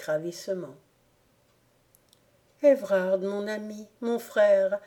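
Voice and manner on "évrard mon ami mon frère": une retenue digne, sans élan; avec dignité. Acted. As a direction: poser chaque mot avec une dignité calme. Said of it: "avec un accent et un geste empreint de cette dignité". (Rosemonde calme Évrard avec dignité)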